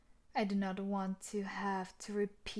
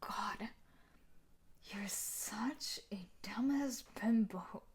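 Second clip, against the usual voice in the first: slow, whispered insult; contemptuous whisper; slower than usual. Acted. Fiancée insults her partner in a slow contemptuous whisper. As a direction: breathe the insult with disdain. Contemptuous aside under breath.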